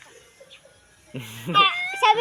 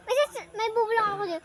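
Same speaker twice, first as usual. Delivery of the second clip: whispering; 7 dB quieter, faster than usual. Real, not acted. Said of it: "bulong ka".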